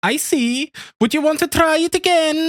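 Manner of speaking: hammy Italian creep; Italian accent. Pretend. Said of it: "Can you do an Italian accent?".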